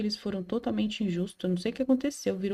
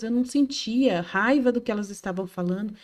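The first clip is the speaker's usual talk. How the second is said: ordinary talk, nothing marked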